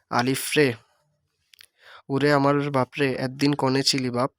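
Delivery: a mother crying out for her son; mother calling in dialect. Shown as a demonstration. Teacher voicing the mother in dialect, calling her lost son. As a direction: call out আলিফ রে like a grieving mother. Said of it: "আঞ্চলিক রূপ".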